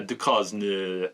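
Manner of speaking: very slow attempt at "Ducosne"; unsure French pronunciation. Real, not acted. Reviewer poor at French retrying the name, "Ducosne" drawn out unsurely. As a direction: draw out "Ducosne" carefully as French. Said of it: "I'm not very good with French".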